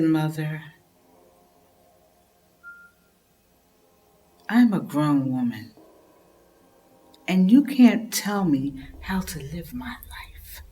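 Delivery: quiet defiance. Acted. Daughter arguing with mother.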